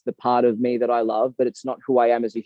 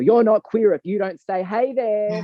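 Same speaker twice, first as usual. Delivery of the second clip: higher, put-on mocking voice; mock stereotype; 5 semitones higher than usual. Mocking demands to prove he's queer, hammed-up stereotype. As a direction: lift the pitch and ham up the greeting.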